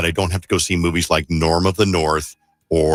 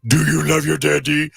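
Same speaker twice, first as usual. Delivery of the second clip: put-on higher cooing baby talk; baby talk to pet; 6 semitones higher than usual. Shown as a demonstration. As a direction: coo up at the dog. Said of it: "That's how I talk to Josie".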